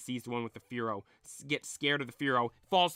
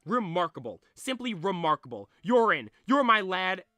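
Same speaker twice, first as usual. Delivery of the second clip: put-on delighted old man; 2 semitones higher, 6 dB louder than usual. Chairman welcomes Red.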